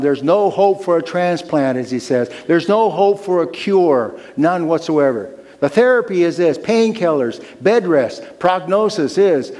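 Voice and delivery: grim dictation. Acted. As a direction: list the bad news with force. Surgeon dictating grim diagnosis.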